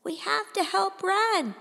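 put-on small boy begging to help his sister; high-pitched, desperate boy. A narrator's reading. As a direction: plead like a frightened younger brother. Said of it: "high-pitched and desperate".

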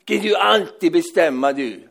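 mildly hammed-up childish challenge; defiant child. (lätt spelat trotsigt barn)

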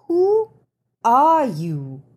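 sharp, high demand. A narrator's reading. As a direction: insist on an answer. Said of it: "I demanded".

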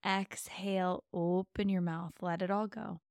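ordinary delivery

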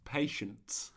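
breathy whispered mantra. Pretend.

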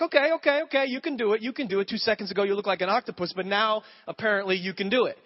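high and loud at first, settling toward normal; dad backing off with wry sarcasm; exasperated dad. Retold or imitated. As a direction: give in to the kid with mock exasperation. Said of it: "I'm like".

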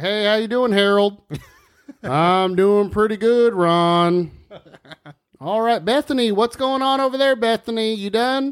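lightly voiced bat small talk; voicing chatty bats. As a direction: play a folksy little bat gossiping with friends. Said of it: "one bat is all like".

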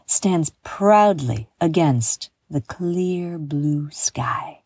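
unhurried storytelling meditation voice; guided visualization. Acted. Host leading listeners on an imagined walk through Madrid, guided visualization.

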